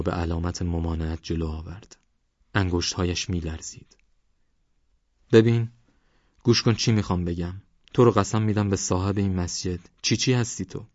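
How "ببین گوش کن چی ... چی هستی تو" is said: put-on old man, insistent and uneasy, a sharp ببین up front; urgent old man. Old man making the stranger swear by the mosque's owner, tense and urgent. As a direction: demand an answer, half afraid.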